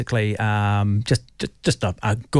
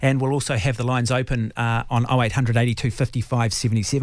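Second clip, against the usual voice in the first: upbeat broadcaster link after the interview; radio announcer read. Acted. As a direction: announce what's coming up like a radio host. Host switches to on-air announcement.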